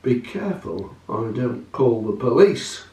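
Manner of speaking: lightly voiced calm detective; different voice, Holmes. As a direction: drop the pitch for a cautioning detective. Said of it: "Different voice".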